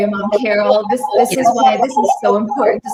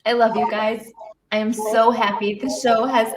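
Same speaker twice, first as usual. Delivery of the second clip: teary, voice rising and cracking; fighting back tears; choked up; 3 semitones higher than usual. Real, not acted. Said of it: "I can't talk right now".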